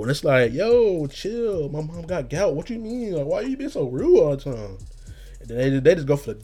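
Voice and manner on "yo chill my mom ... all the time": mock offended. Retold offended reply.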